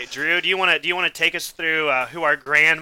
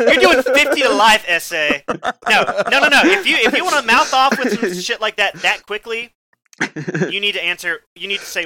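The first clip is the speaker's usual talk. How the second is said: high and loud, hammed-up grilling; mock prosecutor tirade; 4 semitones higher, 6 dB louder than usual. Grilling a cohost over his joke answer, hammed-up loud. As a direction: pin him down like a fake prosecutor.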